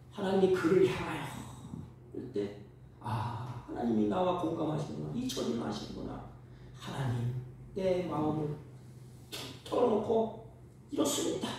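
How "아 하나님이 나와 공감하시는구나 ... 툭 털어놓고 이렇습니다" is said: hushed, breathy, softer confiding prayer; quiet prayer. Retold or imitated. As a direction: pour your heart out privately.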